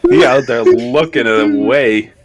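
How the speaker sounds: loud, slow words through laughter; laughing. Real, not acted. Helpless laughter stretching out each word. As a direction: friend cracking up at another player's costume picture, laughing. Cracking up over an image shown.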